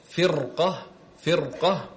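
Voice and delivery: فرقة with a thick, broad ra; heavy ra. Shown as a demonstration. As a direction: demonstrate the heavy ra before qaf in فرقة. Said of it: "هنا أيضًا تفخم".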